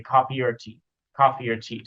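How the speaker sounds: "or" reduced to er in "coffee or tea"; a quick er for "or"; weak "or". Shown as a demonstration. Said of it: "We say".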